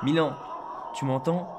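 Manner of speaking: calling out. Acted. Calling over noisy phone line.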